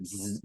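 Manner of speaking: buzzing news-wire printer noise; imitated wire machine. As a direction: imitate an old teletype printing with a buzz. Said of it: "the A P wire that would just".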